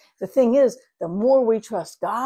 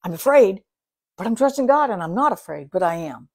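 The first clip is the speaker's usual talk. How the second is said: inner voice; 7 dB louder than usual. Retold or imitated. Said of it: "it's like".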